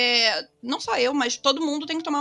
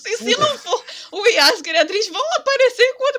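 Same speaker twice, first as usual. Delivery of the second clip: talking through laughter; laughing; 8 semitones higher, 8 dB louder than usual. Real, not acted. Laughing while joking about fandom.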